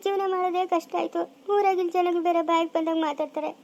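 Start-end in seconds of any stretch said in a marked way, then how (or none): 1.5-3.5 crying while telling. Acted. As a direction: voice choked with tears as she complains. Mother tells of village gossip.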